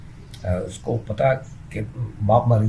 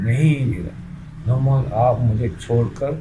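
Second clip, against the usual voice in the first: emotional plea; slower than usual. Acted. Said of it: "وہ جذباتی انداز".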